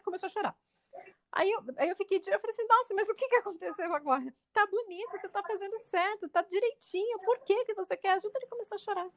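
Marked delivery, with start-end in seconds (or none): 2.7-8.4 put-on soothing a crying child.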